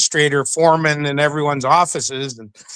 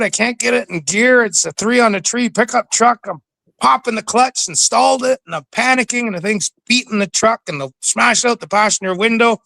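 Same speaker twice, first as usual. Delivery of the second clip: retelling frantic; 6 semitones higher than usual. Retold or imitated. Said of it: "he's all frantic".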